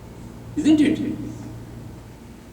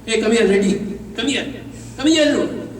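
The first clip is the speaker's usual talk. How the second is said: warm hearty welcome; 3 semitones higher than usual. Acted. Guru acting out how to greet a friend, playfully rising. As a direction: call the friend in as if he's a great master. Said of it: "Always say".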